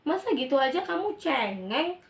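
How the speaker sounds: an irritated parent telling off her son; scolding parent. Acted.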